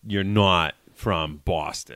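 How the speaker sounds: slow Boston O in "not"; Boston accent. Shown as a demonstration. Teaching the host the Boston O in a slow demo. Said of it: "just the O's".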